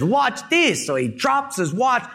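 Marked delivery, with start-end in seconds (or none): 0.0-0.9 cocky boast. Retold or imitated. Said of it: "and he says".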